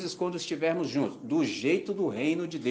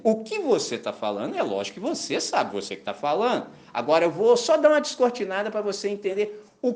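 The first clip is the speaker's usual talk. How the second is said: God speaking; 4 semitones higher than usual. Retold or imitated. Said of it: "como se Deus falasse assim".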